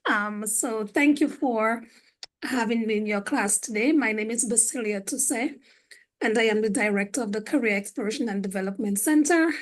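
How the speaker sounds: losing her voice, a bit rough; hoarse voice. Real, not acted. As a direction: talk through a voice that is going. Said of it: "Excuse my voice".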